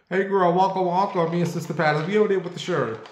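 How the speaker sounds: bright excited call out to a pal across the set; mock talk-show hype, calling her over; hyped-up cohost greeting. Cohost hyping up Sherri Shepherd on set, excited call.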